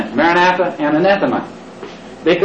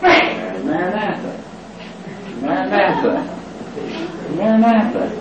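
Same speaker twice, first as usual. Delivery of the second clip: greeting; 2 semitones higher, 6 dB quieter than usual. Shown as a demonstration. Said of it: "you can also say".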